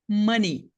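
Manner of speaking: "money" spoken very slowly, MÁ-ni, two clean syllables; teacher modelling money slowly; slow pronunciation demo. Shown as a demonstration. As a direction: stretch out "money" syllable by syllable for students. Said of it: "duas sílabas".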